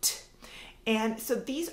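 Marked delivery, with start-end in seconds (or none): 0.0-0.2 a lone "t" sound, crisp; just the final "t" sound; isolated sound. Shown as a demonstration. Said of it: "the sound that they hear at the end".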